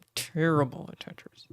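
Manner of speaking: breathy conspiratorial whisper, no voice. Shown as a demonstration. Streamer admits to chat a second time, whispering. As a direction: whisper it like a confession.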